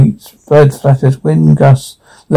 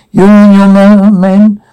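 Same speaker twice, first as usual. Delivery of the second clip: loud; 6 semitones higher, 4 dB louder than usual. Acted. Ordering guests to leave.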